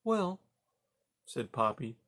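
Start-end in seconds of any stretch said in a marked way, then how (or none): 0.0-0.4 high, tightly controlled "well"; restrained anger. A narrator's reading. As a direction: hold the anger down. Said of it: "working hard to keep her anger down".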